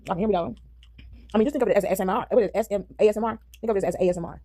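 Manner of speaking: talking while chewing; words round a mouthful; mouth full. Real, not acted. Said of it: "my mouth is full of food".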